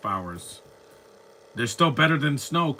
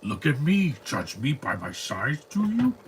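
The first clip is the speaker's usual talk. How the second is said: imitating Yoda; 2 semitones higher than usual. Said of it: "We know, Yoda".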